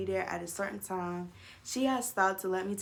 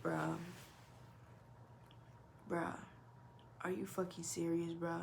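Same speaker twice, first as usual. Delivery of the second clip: stunned disbelief; 3 semitones lower, 13 dB quieter than usual. Retold or imitated. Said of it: "I was mad as shit".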